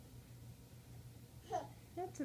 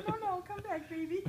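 voicing the dog, higher and louder; 8 semitones higher, 7 dB louder than usual. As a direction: speak for the dog, pleading. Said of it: "Missy says".

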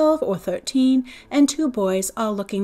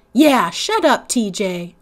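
echoing; 7 dB louder, slower than usual. Acted. The narrator as a girl joining in against T J, sharp. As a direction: back up your brother. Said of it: "I echoed".

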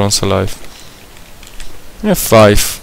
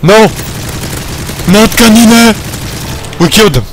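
man down shout; 9 semitones higher than usual. Real, not acted. Teammate killed in game.

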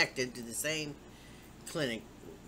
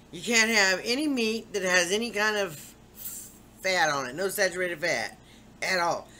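higher, louder lecturing doctor; mock bossy doctor; 4 semitones higher, 4 dB louder than usual. Imitating the doctor banning bacon, mock bossy and louder. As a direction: bark out the banned foods mockingly. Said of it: "she's telling me".

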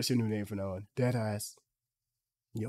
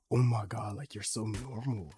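excited gush. Pretend. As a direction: gush like a starstruck fan. Playing a fan.

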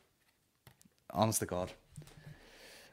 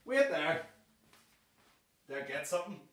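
muttered aside; 7 semitones higher, 9 dB quieter than usual. Real, not acted. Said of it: "hold on".

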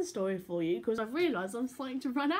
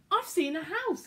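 loud, higher pirate captain announcement; a touch of a gruff captain; declared; 10 semitones higher, 5 dB louder than usual. Acted. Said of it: "Captain Patch declared".

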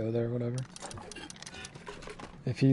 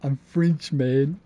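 mocking Australian echo, pitched up; mimicked Australian accent; 4 dB louder, much slower than usual. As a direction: parrot him back in an Australian accent. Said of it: "I know an Australian accent".

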